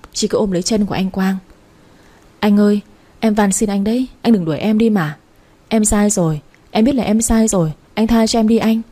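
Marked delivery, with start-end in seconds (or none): 2.4-8.8 mildly tearful, urgent begging; crying plea. Acted. Trà begging her husband not to send her away, mild tearful plea. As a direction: plead desperately but lightly voiced. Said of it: "Chị Trà khóc sưng cả mắt".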